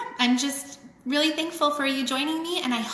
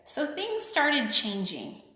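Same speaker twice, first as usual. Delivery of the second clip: sing-song picture book reading; lilting read-aloud for kids; story reading. A narrator's reading. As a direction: read it like a rhyming children's book. Reads rhyming picture book aloud.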